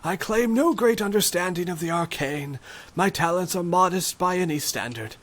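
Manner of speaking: put-on high, modest old magician voice; shaky old voice.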